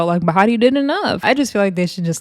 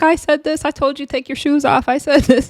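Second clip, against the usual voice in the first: high pleading imitation; 7 semitones higher than usual.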